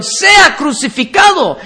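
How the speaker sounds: hammed-up cry of the mob; preacher mimicking the crowd's yell; crowd shouting. Crowd demands crucifixion, retold.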